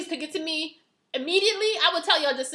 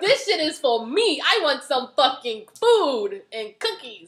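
slow, laughing admission; much slower than usual. Real, not acted. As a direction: giggle while owning it. Confessing through laughter.

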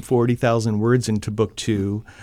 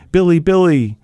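desperate calling; 4 semitones higher, 4 dB louder than usual. Acted. Mother calls for husband.

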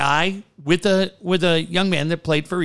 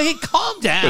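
calm down; 10 semitones higher than usual. Retold or imitated. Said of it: "I go".

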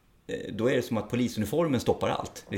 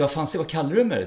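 louder, higher mock-aggressive retort; confrontational; 5 semitones higher, 5 dB louder than usual. Officer imitating a provoked colleague, a mock angry retort. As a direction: snap back as if provoked, half-acted. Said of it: "istället för att gå på sig".

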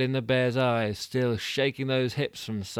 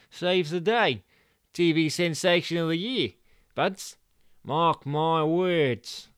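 higher, louder cocky director; Stu boasting; 5 semitones higher, 5 dB louder than usual. Acted. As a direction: brag like a showman.

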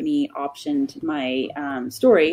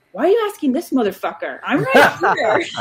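Samuel Jackson; 8 semitones higher, 7 dB louder than usual. Retold or imitated. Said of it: "turns and looks at me and goes".

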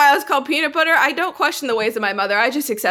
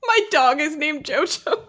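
mock girlfriend line; 4 semitones higher, slower than usual. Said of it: "repeating the quote".

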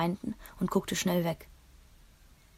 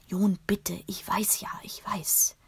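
pleading whisper; slower than usual. Acted. Mutter beschwichtigt flüsternd.

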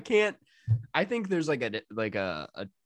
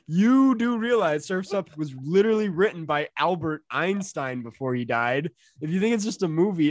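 loud indignant rant; mock outrage; 4 semitones higher, 5 dB louder than usual. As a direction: rant it like an offended fan. Reading fan post aloud.

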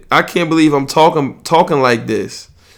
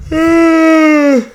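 sudden high yelp; 4 dB louder than usual. Real, not acted. Sudden outburst mid-sentence.

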